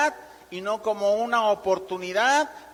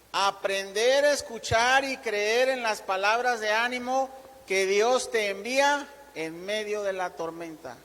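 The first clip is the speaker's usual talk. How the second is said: deliberate read-out of a key point; measured reading aloud. Shown as a demonstration. Preacher reads first point to congregation writing it down, measured reading. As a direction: read it out clearly for note-takers. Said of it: "lo voy a leer despacio".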